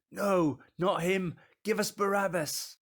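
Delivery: high, forceful shouts of refusal; loud, high-pitched protest in short bursts; crowd shouting back. Acted. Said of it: "They shouted back".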